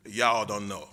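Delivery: joking attempt at a Texan accent. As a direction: toss it out in a lightly put-on Texan accent. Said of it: "I say in my Texan accent".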